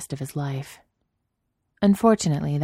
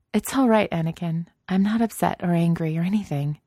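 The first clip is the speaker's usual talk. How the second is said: Padme reassuring; 3 semitones higher than usual. Acted.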